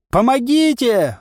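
high, slow, loud cry for help; wailing for help. A narrator's reading. Stranded hero cries out for help, desperate wail. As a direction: yell it out desperately. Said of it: "возопил я".

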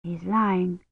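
soft, hushed suspicion; inner thought. A narrator's reading. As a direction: think it quietly. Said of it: "Kivrin thought".

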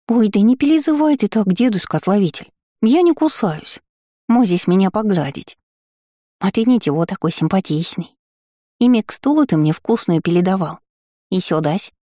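high, lisping, cheeky little gargoyle; grinding stone gravel voice. Acted. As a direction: coax him like a playful imp. Gargoyle teases the old apothecary. (шепелявый озорной голосок горгульи)

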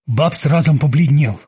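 ordinary delivery

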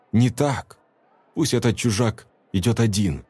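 ordinary delivery

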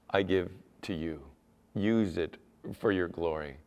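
soft, low surrender to God; humble offering. Acted. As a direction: offer it up quietly, well below full voice.

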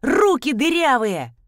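put-on a coworker berating the clumsy girl, angry shout; angry yell. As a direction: bawl her out for breaking things.

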